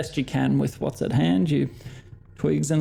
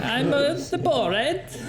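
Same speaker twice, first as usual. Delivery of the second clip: laughing while repeating the Borat; giggling imitation of the Borat; 11 semitones higher, slower than usual. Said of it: "Borat the German".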